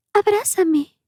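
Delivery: put-on eerie high-pitched baby plea, long drawn out; high ghostly child calling slowly; faint baby voice. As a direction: put on a thin, creepy infant voice. Ghostly little girl begs a hug.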